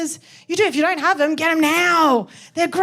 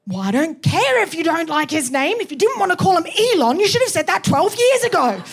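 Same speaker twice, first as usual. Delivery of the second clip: mock argument; 2 semitones higher than usual. Partner faking a fight before charity mugger, mock indignant. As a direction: fake a heated couple's row.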